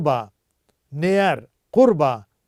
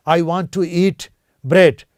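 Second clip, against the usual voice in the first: "I want to eat bread" drawn out very slowly and a bit louder; slow dictation; 4 dB louder, much slower than usual. Shown as a demonstration. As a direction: stretch every word for the class to copy. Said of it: "जैसे कहना हो". (बहुत धीमे, हर शब्द खींचकर)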